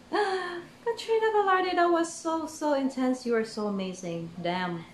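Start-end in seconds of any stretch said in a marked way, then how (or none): 0.1-3.3 breathless awe. Real, not acted. Gasping awe at singer.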